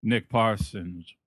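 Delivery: put-on Devereaux voice. Acting as Devereaux in mocked accent.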